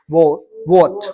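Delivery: WHAT built from a rounded "wo". Shown as a demonstration. Teacher drilling rounded mouth with class, deliberate w. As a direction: round the lips, then say "what" as "wot". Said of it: "अपने mouth को round करेंगे".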